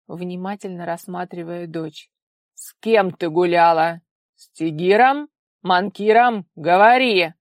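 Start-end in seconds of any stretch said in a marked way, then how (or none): 2.5-7.3 loud, pressing demand; furious interrogation. A narrator's reading. Father demanding names from his daughter, loud and furious. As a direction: hammer her with questions.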